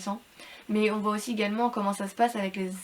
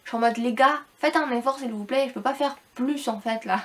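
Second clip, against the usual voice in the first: sick robotic voice. Real, not acted. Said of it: "On dirait que je parle comme un robot".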